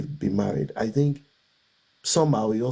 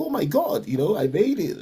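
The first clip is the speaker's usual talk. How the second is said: excited; 5 semitones higher than usual. Retold or imitated. Excited in dream heaven.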